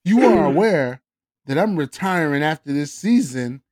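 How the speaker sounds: a lightly put-on Canadian accent reading a text, mostly near normal voice; dramatic reading in a hammed-up Canadian accent with little change of pitch; mock Canadian accent. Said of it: "With a Canadian accent".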